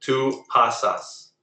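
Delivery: pasas slowly, stressed on the first syllable, PA-sas; slow model of pasas with a strong PA; second-to-last syllable stress. Shown as a demonstration. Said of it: "Stress goes on the second to last syllable".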